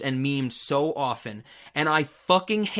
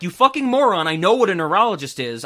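acted exasperation; 2 semitones higher, 7 dB louder, faster than usual. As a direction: snap at a condescending explainer, play-acting. Acts out exasperated reply to explainer.

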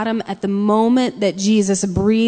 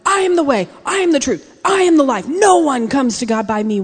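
loud, higher-pitched declaration, punched on each I; grand proclamation; 4 semitones higher, 5 dB louder than usual. Acted. Mock version of Jesus declaring himself, loud and declamatory. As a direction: proclaim it like a booming announcement. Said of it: "far from going".

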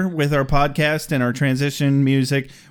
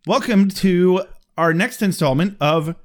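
game show host; 4 semitones higher than usual. Pretend. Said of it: "Wheel of Fortune theme".

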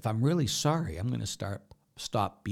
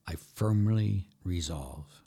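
slow recital; 3 semitones lower, slower than usual. Acted. Reciting the act of contrition.

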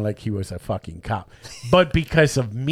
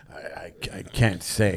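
mock stammering dodge; 7 semitones lower, 6 dB quieter than usual. Fake veteran dodging question.

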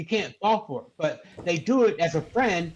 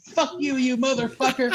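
higher-pitched mock outburst; retold angry cursing; 5 semitones higher than usual. Scammer swearing at a prank victim, mock angry. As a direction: curse him out like a fed-up scammer.

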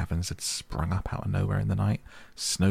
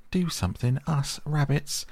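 incredulous rabbit; 9 semitones higher than usual. A narrator's reading. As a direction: mimic a silly rabbit, pitched way up. Retold silly rabbit echoes in disbelief.

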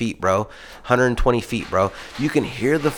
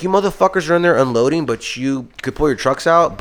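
mock yelling; 5 semitones higher than usual. Retelling yelling at coworkers.

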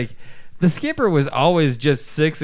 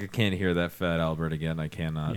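low, softer, weary grumble; professor quote; 7 semitones lower, 6 dB quieter than usual. Retold or imitated. The professor grumbling about Bill Cosby, low and weary. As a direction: mutter it low like a fed-up professor. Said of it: "he's like".

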